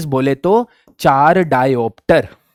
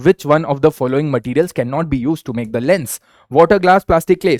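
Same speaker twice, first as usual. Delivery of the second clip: slow, deliberate quiz reading; question read-out; much slower than usual. Acted. Teacher reads a quiz question to students, slow and deliberate. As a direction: spell each word out for the class.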